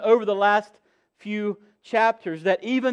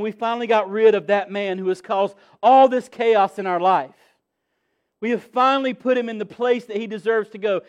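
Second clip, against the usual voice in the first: 1 gloating Jewish leaders; 3 semitones higher, 5 dB louder than usual. Acted. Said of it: "They will be saying".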